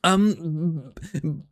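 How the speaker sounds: high anime hero narration, eager and earnest; Deku English impression. Streamer narrating the visual novel as Deku, high eager dub voice. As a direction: narrate like a nervous dub hero, pitched well up. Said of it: "all Deku".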